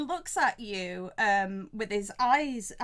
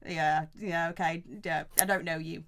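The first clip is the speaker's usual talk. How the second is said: low, muted mumbling to himself; shifty innkeeper; 5 semitones lower, 3 dB quieter than usual. Acted. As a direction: size them up warily, keeping it low. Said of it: "looking at you a little bit sort of shiftily".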